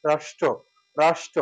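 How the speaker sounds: রাষ্ট্র said with a palatal "sh" and a clipped end; rashtro with sh. Shown as a demonstration. Teacher modelling the everyday রাষ্ট্র for learners. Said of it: "তালব্য স উচ্চারণ করি".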